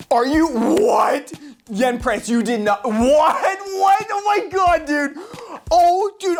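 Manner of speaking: high-pitched, disbelieving outburst; real shock. Real, not acted. YouTuber unboxing a long-wanted gift from Yen Press, shocked. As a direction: voice leaps up in stunned delight.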